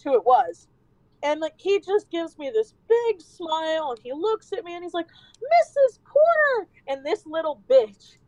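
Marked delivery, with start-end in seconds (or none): 5.4-6.7 high, drawn-out happy shout; boy greets his teacher with a delighted shout; excited call. Retold or imitated. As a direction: call out gleefully like a kid spotting his teacher. Kid calls out happily to teacher.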